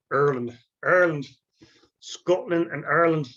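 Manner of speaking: Ireland said as "Arland" in a clumsy Scottish accent; terrible Scottish accent. Shown as a demonstration. Lecturer showing the class his clumsy Scottish accent. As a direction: have a bad go at a Scottish accent on "Scotland and Ireland". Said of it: "my terrible accent".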